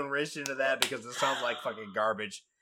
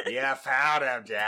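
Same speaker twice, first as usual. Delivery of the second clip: put-on JFK accent; 2 semitones lower than usual. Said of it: "my J F K accent".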